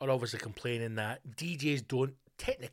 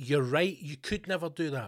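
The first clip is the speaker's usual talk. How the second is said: irritated, angry, cutting put-down tone; 3 semitones higher than usual. Retelling watching a film and answering the young dj: imitating own angry retort. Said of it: "I'm getting angry 'cause I'm going".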